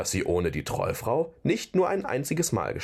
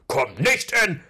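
empörter Protest; 7 semitones higher, 5 dB louder than usual. Acted. Torvald protestiert, wird unterbrochen.

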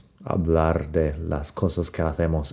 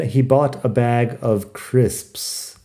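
slow model sentence; 3 semitones higher, much slower than usual. Shown as a demonstration. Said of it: "También".

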